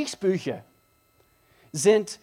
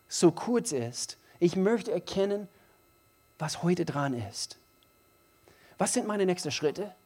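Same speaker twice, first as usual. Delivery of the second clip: sample prayer. Retold or imitated. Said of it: "unsere Gebete lauten ... etwas so".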